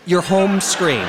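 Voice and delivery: HOME SCREEN drawn out slowly and clearly; slow, deliberate "home screen"; slow clarifying repeat. Acted. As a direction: spell out "home screen" slowly for someone who misheard. Repeats it after "My what?.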